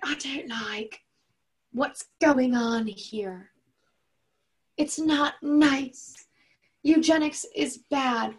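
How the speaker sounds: high, slow put-on British accent. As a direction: draw it out in mock British. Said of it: "I'm gonna make her British".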